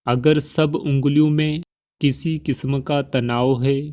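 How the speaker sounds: measured instructions with long pauses between phrases; calm, evenly paced meditation voice; guided meditation. Acted. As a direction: guide the listener gently into relaxation, phrase by phrase.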